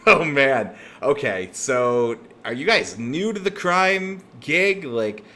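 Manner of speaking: a crime boss laughing at amateurs; mocking boss.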